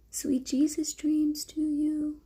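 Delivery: slow tender goodnight whisper. Real, not acted. Mother whispering goodnight to her baby.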